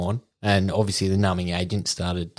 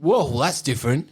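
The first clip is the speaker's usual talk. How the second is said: startled pain; 4 semitones higher than usual. Retold or imitated. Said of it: "I was like".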